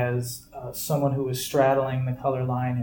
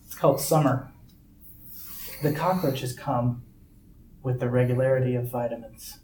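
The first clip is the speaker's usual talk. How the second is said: reading a poem. Shown as a demonstration. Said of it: "Here's another one".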